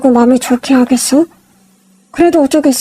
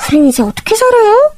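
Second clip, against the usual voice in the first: higher, whiny begging sister-in-law; pleading sister-in-law; 8 semitones higher than usual. Acted. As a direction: beg the rich elder sister-in-law for help.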